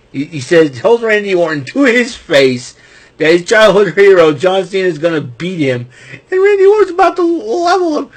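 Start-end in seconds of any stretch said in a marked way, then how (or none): 6.1-8.1 high, loud hyped-up call; excited. Real, not acted. Recapping wrestling to fans, high and hyped. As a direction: hype it like a big moment.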